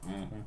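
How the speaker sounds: low, soft Billy Bob Thornton hum; imitated throaty mm-hmm; Sling Blade grunt. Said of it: "Sling Blade".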